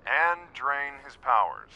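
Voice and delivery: slow, flat echo of brother's words; grudging mock repeat. Sister mocking brother's insistence, slow grudging echo. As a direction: repeat it back, rolling your eyes. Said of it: "Okay, fine".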